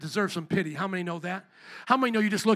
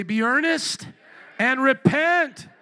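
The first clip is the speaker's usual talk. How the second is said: slow, loud, emphatic cry; like you mean it; 5 semitones higher, 7 dB louder, much slower than usual. Shown as a demonstration. Preacher showing the congregation how to declare it. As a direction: hit repent hard and stretched. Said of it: "say it like you mean it".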